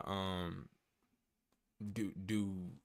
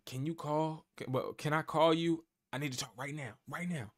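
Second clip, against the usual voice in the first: softer, hushed plea; retold whisper; 6 dB quieter than usual. Student calling her mentor in secret, hushed and urgent. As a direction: keep it down like someone might overhear. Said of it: "she always was whispering during every call".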